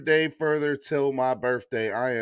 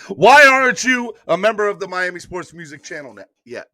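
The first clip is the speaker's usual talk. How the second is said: high, loud Italian mobster outburst; hammed-up Italian mobster demanding an answer; mobster Italian accent; 5 semitones higher, 9 dB louder than usual. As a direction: erupt like an offended Italian mob boss. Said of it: "my mobster Italian accent".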